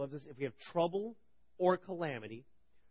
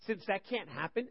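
can't pressed higher; emphatic repeat; 4 semitones higher than usual. Shown as a demonstration. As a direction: lean on can't. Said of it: "Wow, what a statement".

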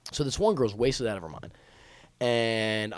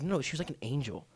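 feigned awed devotion. Acted. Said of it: "so over the top".

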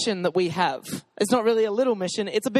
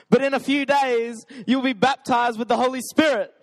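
stirring re-read; 4 semitones higher than usual. Real, not acted. Pastor re-reads the verse to stir up a Pentecostal reply, with a touch more excitement. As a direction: lift it to stir the room. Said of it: "Let's see if we got any more".

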